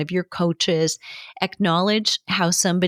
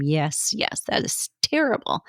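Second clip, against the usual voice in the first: mock over-sympathy. Shown as a demonstration. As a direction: lay the pity on thick, mockingly. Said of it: "stir it a little and just tell them".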